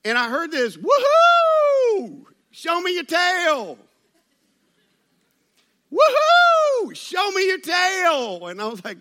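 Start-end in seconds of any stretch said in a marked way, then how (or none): 0.8-3.8 high, loud drawn-out whoop and holler; hollered Southern whoop. Retold or imitated. Wife hollering at whales from the boat, excited Southern yell. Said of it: "with this accent that sounded like". 5.9-8.5 soaring, very loud whoop, words stretched slow; hollered Southern whoop. Retold or imitated. Mystery woman on the whale boat, wild drawled yell. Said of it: "What girl is yelling that?".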